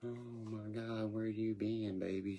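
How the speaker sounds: creaky, high-pitched granny character voice. Retelling a favorite granny bit from a cartoon: Paradise PD old lady voice. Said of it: "I love that old lady voice".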